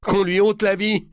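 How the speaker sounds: high, loud, pitiless verdict; death sentence. A narrator's reading. Louis answers the king about his wife, a high pitiless verdict. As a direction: pronounce her death without pity. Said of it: "répondit le hutin".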